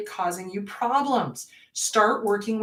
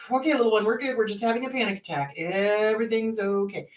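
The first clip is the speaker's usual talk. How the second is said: put-on soothing inner child. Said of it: "Talk to your inner child".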